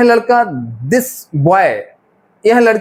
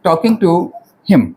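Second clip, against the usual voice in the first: very slow, word by word for the class; each word spaced out for children copying it down; slow dictation; much slower than usual. Shown as a demonstration. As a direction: dictate slowly so pupils can write. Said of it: "तो क्या".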